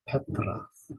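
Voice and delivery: "Petras" whispered softly; soft repeat. Shown as a demonstration. Teacher softly repeating "Petras" for students. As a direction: breathe "Petras" quietly. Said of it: "repeated softly for practice".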